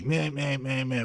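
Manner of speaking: dismissive meh meh; bored mocking drone; mocking blah blah. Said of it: "comes across as meh".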